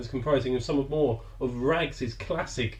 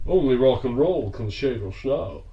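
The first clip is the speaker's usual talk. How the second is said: Sean Connery impression. Shown as a demonstration. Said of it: "Of course I can do it".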